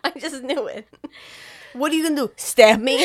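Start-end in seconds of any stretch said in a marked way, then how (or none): 1.7-3.0 mocking taunt. Mocking taunt before stabbing.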